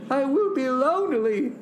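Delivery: high, quick plea; acted cry of loneliness; plaintive storybook shout. A narrator's reading. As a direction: blurt it out high and fast. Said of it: "he shouted".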